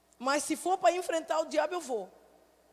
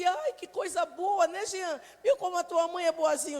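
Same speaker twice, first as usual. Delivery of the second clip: sweet mock praise; 2 semitones higher than usual. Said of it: "ele disse".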